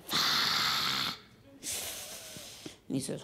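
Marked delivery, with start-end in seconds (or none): 0.1-1.2 dread. Retold or imitated. Sees husband's shoes, dreads lecture.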